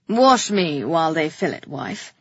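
low order, dropping on the last word; commanding king. A narrator's reading. King ordering his wife to wash him, commanding.

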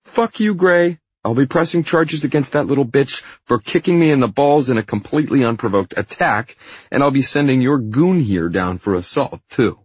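high, loud whiny rant; indignant Hyde. Acted. Fired Hyde threatening to press charges, high angry rant. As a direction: rage and whine at a high pitch.

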